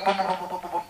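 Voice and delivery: rapid string of vocal booms; imitated booming. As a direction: mimic a repeated thumping noise. Imitated repeated booming noise. (giả tiếng bum bum dồn dập)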